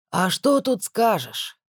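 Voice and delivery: slow, theatrical sighing question; showy sigh. A narrator's reading. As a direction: sigh it for show. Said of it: "демонстративно вздохнул Половиков".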